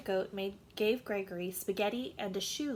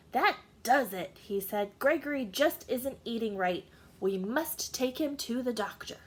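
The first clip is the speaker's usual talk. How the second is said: louder, fed-up declaration; exasperated father; 3 semitones higher, 5 dB louder than usual. Acted. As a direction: slam down the decision. Father fed up, throws napkin.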